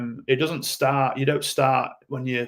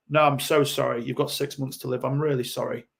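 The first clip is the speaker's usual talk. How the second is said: like a surgeon. Retold or imitated. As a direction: deliver the verdict gently but firmly. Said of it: "said like a surgeon".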